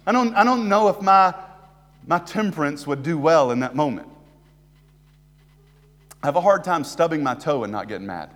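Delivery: ordinary talk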